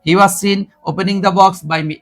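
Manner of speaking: very slow, word by word; teacher repeating the answer slowly; slow model read. Shown as a demonstration. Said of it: "দেখো কোথায় আসছে".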